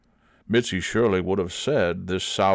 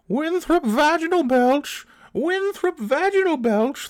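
shrieking the name, very high; high shrieking cry; 4 dB louder than usual. A narrator's reading. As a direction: screech it out in ecstasy. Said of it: "the old cow cried".

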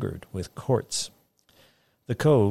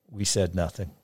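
usual speaking voice

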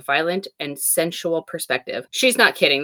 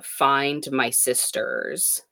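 ominous warning; 4 dB quieter, much slower than usual. Retold or imitated. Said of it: "a very ominous warning".

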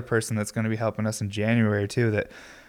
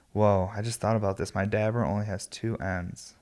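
stoned; 6 dB quieter than usual. Real, not acted. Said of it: "I'm really baked right now".

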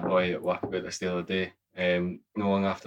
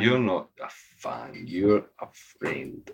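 mock tender; much slower than usual. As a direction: say it like a sappy card. Tender mock message to fans.

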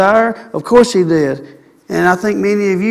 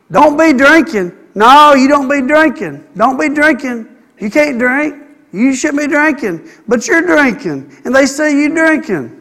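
higher, louder scolding; scolding parent; 5 semitones higher, 3 dB louder than usual. Retold or imitated. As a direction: wag the finger at the kid.

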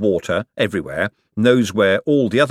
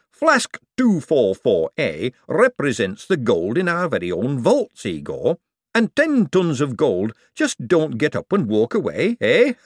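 high, nervous jolly rise; nervous excited; 5 semitones higher than usual. Acted. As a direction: joke to cover panic. Hubert nervous joke.

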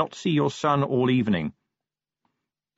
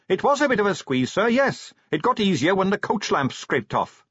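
high raised reply; pitched up to carry; calling back; 9 semitones higher than usual. A narrator's reading. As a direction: explain over the noise of wheels. Shouted reply on speeding coach.

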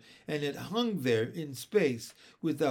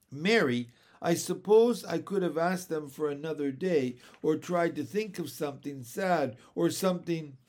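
hurried apology; 4 dB louder than usual. Acted. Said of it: "said hurriedly".

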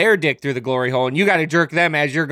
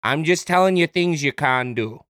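imitated Canadian killer, matter-of-fact; lightly put-on Canadian accent; bad Canadian accent. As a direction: retell it in mock Canadian. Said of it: "a bad Canadian accent".

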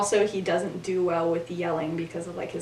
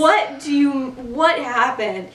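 angry; 4 semitones higher, 4 dB louder, slower than usual. Retold or imitated. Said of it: "angry Remus".

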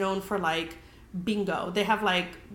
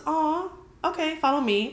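pitying hostess; 6 semitones higher than usual. Retold or imitated. Hostess pitying a diner who came alone, a high sympathetic coo. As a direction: coo it like you feel sorry for her.

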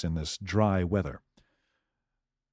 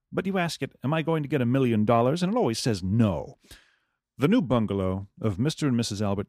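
put-on lively old-time newsreel narration; newspaper story reading. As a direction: read it like a vintage radio announcer. Reads old newspaper story aloud.

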